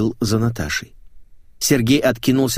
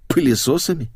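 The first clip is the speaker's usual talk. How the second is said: higher, baffled echo; stunned; 5 semitones higher than usual. Acted. Narrator echoing the girl's odd order, stunned. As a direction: repeat пылесосами in mild disbelief. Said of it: "ошарашенно повторил я".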